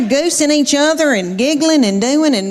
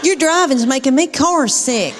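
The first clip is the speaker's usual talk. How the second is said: imitating a preteen's accusing whine, pitched up; mock carsick kid griping at mom; complaining daughter; 4 semitones higher than usual. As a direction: grumble like an aggrieved daughter. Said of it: "she says something like this".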